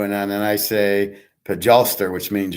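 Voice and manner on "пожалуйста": "Пожалуйста" said in Russian, careful and even; speaking Russian. Shown as a demonstration. Man showing a friend his one Russian word, "Пожалуйста" in Russian. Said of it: "here's me speaking Russian".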